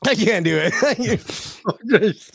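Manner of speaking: a hint of a famous diva, slow and drawn out; impression of a famous singer. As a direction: sing it out slowly as that singer. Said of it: "that singer is your best".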